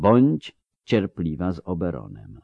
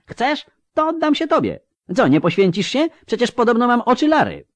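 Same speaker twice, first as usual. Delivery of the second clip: much higher shrieking taunt; screaming taunt; 5 dB louder than usual. A narrator's reading. Ciri screaming a taunt at Avallac'h, loud and high. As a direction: scream the challenge at him. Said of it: "wrzasnęła".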